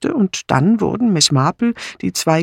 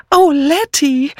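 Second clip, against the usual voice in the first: high, slow, flustered Oh; excited cry; 13 semitones higher, 4 dB louder, slower than usual. A narrator's reading. Miss Banner suddenly remembering, excited high cry. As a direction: blurt it out in a flutter. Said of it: "rief nur Miss Banner aufgeregt".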